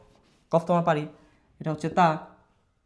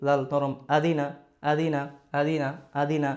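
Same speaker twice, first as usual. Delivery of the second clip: slow careful spelling; 2 semitones lower than usual. Shown as a demonstration.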